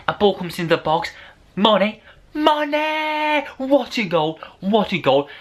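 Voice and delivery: high, thrilled goal shout; excited goal call. Retold or imitated. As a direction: scream the name like a goal call on live TV. Commentator-style goal celebration.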